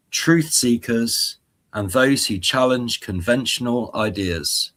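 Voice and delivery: slow, measured channel intro; slow motivational intro. Pretend. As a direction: take it slowly and steadily. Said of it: "I'll try and slow down a bit and take a breath".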